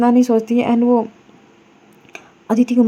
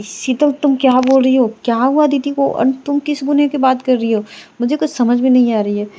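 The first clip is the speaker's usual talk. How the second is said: higher, bewildered demanding; confused alarm; 3 semitones higher than usual. Acted. Myra, confused and alarmed, questions Sheetal about her confession.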